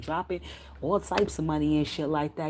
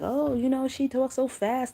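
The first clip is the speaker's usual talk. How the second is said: higher-pitched, drawn-out mock complaint; mocking complainer; 7 semitones higher, 3 dB louder than usual. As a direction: imitate a fussy critic, stretching the words. Mimics critics complaining about her.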